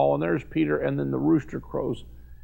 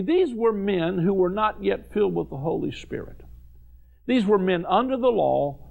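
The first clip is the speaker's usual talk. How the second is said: ordinary talk, nothing marked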